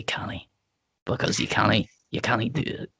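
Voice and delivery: hammed-up Scottish "canny"; Scottish accent. Shown as a demonstration. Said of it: "Whenever I do Scottish".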